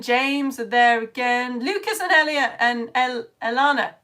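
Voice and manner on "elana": ELANA as a tentative name attempt; trying a pronunciation. Shown as a demonstration. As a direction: try the name as "Elana", stressed in the middle. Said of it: "Pronounce her name right".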